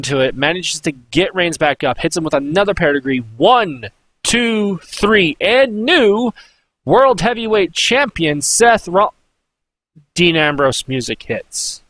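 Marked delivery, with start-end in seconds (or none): 3.4-9.1 imitated title announcement, higher pitch; lightly voiced referee count into champion call; ring announcer.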